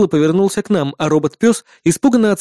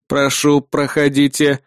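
creaky robot voice; slower than usual. Acted. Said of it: "проскрипел робот-пёс".

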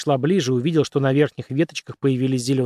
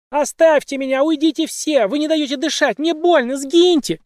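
screaming in pain; 13 semitones higher than usual. A narrator's reading. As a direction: scream it as if in agony. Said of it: "кричавшая женщина".

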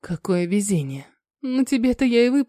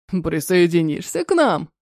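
gentle giant voice; 4 semitones lower than usual. Acted. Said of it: "Великан добродушно".

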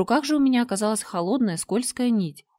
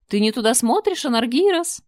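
high, loud sweet coaxing; a trap laid with tenderness; gentle woman; 5 semitones higher, 6 dB louder than usual. Acted. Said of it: "нежно произнесла неведомая женщина". (чудовище нежно заманивает жертву)

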